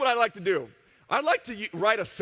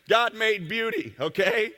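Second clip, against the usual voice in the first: slow, louder, pressing God made beauty; emphatic insistence; 5 semitones higher, 5 dB louder, slower than usual. Real, not acted. A seminar speaker insisting to the audience, slow and emphatic. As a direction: hammer the point home slowly. Defending a sexy picture at a seminar.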